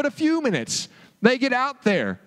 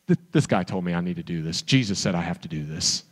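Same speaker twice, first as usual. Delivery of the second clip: sheepish Peter; 12 semitones lower, faster than usual. Retold or imitated.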